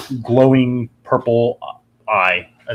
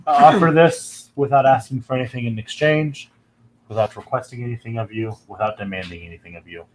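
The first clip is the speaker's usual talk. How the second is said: deep dragon voice. Acted. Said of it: "you hear a deep voice".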